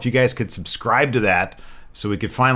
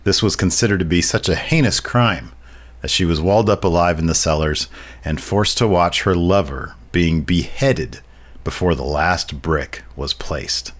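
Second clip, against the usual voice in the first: haunting voice. Acted. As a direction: read it like a grim ghost tale. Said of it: "like, a very haunting voice".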